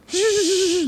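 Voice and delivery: long high whooshing noise; imitated flying stone. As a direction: follow the stone through the air with a hiss. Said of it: "날아가죠".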